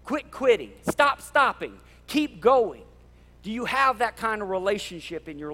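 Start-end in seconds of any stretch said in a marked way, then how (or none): 0.1-2.8 louder, higher rallying cry; encouraging shout. Acted. A preacher shouting encouragement to his congregation, rallying. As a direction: fire them up to keep going. Pastor voicing an encouraging friend.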